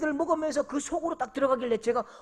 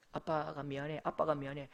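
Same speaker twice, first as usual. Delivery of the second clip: soft apology; 7 semitones lower, 10 dB quieter than usual. Retold or imitated. Father apologizing to crying son.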